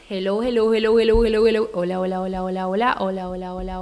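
loud repeated hellos into the mic; mic test call. Real, not acted. Testing her voice volume, calling loudly. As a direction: call out to check the level.

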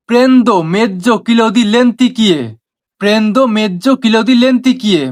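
very slow, word by word Italian phrase; slow teaching demo. Shown as a demonstration. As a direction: spell it out slowly for learners. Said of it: "পুরোটা কি হচ্ছে". (ধীরে ধীরে শেখানোর উচ্চারণ)

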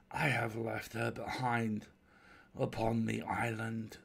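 slow, measured voice from the dark; unseen stranger. Acted. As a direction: draw each phrase out sorrowfully. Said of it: "came the voice".

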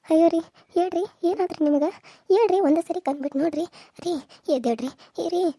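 loud, pleading wail; desperate wail. Acted. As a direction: beg him to wake up, frantic. Wife wails over unresponsive husband. (ಗಂಡನನ್ನು ಎಬ್ಬಿಸಲು ಹತಾಶ ಗೋಳಾಟ)

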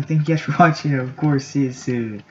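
loud, high cheerful sign-off; excited outro with a laugh; upbeat outro. Real, not acted. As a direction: bounce out of the video happily. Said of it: "That was a random video".

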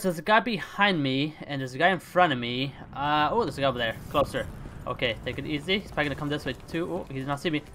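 hushed sneaking. Real, not acted. Sneaking near enemies.

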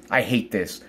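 low, quiet bitterness; real subdued disgust; bitter loathing. Real, not acted. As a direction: say it low, holding the hate in. Venting, low before the outburst.

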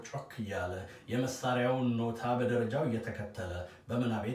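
declaimed Amharic verse, lines launched strongly; poem recitation. Acted. Librarian recites own Amharic translation of the poem, rhythmic declamation.

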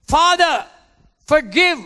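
loud, high anguished cry; crying out to the Father. Acted. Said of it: "Jesus cried out".

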